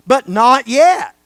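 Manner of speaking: not yet, slow and loud with not punched; stress on not. Shown as a demonstration. Preacher to the congregation, stressing not. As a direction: lean hard on not. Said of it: "the emphasis is on the word not".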